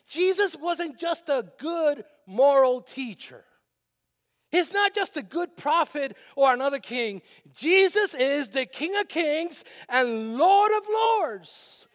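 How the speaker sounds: slow, building proclamation; preaching. Acted. Pastor building up to proclaiming Jesus as King of Kings. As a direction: build toward the climax.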